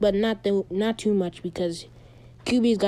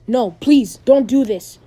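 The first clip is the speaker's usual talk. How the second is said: louder, mildly acted plea; pleading; 2 semitones higher, 8 dB louder than usual. Losing fighter begging his opponent to stop, acted pleading. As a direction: beg them to stop, lightly acted.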